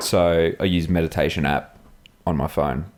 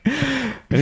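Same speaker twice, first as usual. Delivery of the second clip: laughing. Real, not acted. Laughing through the story.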